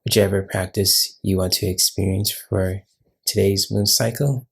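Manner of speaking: measured welcome with pauses between phrases; guided meditation intro. Acted. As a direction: gently lead listeners into a meditation, phrase by phrase.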